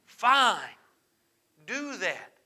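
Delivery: lightly put-on salesman's smiling delivery; a hint of a silly voice while claiming to be upset; funny voice. Shown as a demonstration. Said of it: "I have to say in a funny voice".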